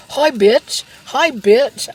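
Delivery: high, loud sassy greeting; imitating TikTok guy. Imitating a funny TikTok guy's sassy greeting. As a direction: toss off a sassy hi. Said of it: "He goes".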